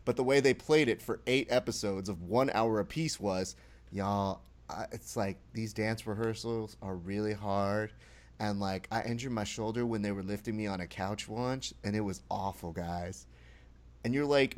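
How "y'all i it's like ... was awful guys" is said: softly put-on reality-star lament; understated mock complaint. Host mimics Mariah whining about dance rehearsals, understated mock complaint. Acting out the star's complaint on camera.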